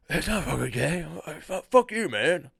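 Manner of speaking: botched demon voice, stumbling into a retort. Acted. Demon denying he's gay, indignant mock demon voice. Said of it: "let me work on the demon voice".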